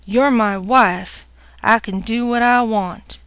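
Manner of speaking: husband's rough threat. Acted. Hobbs forcing himself on wife.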